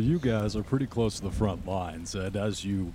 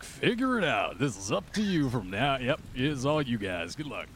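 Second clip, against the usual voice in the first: dismissive officer; 5 semitones higher than usual. Retold or imitated. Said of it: "they're like".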